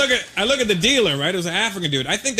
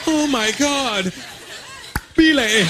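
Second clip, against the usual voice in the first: higher, slow mock-passionate cry; woman in passion; 6 semitones higher, much slower than usual. Woman making love calls his name, high passionate cry with click. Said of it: "he's in there with his woman".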